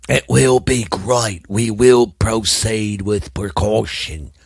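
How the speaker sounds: very slow, put-on vampire voice; Dracula. Podcaster promising listeners it'll be great, mock Dracula. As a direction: draw it out like a hokey vampire. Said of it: "trying to do my Dracula voice".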